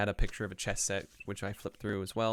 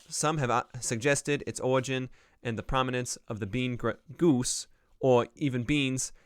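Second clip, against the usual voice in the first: a rough, wandering Boston accent read a bit louder; attempted Boston accent; 4 dB louder than usual. Shown as a demonstration. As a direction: read the dictionary entry in a shaky try at a Boston accent, JFK-style. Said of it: "at reading some of these in a Boston accent".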